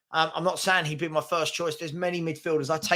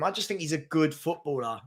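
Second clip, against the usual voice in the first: good leaned on with extra weight; stress on good; 4 dB quieter than usual. Real, not acted. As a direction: lean into the word good so it lands. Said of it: "Notice the emphasis on the word good".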